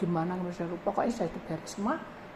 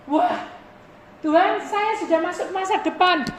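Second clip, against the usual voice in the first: high, loud eager exclamation; a proud believer exclaiming to God; excited boast; 11 semitones higher, 10 dB louder than usual. Retold or imitated. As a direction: crow about it to God.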